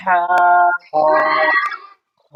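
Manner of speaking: হা pressed from the middle of the throat; light throat press on হা. Shown as a demonstration. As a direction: push হা out with a little throat pressure. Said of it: "আইনটা একটু চাপ দিয়ে".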